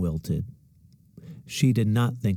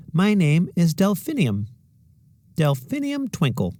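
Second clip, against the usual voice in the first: higher, proud dreamy voice; music teacher; 8 semitones higher than usual. A narrator's reading. Teacher telling the class her name, lightly voiced. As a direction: announce the name with delight.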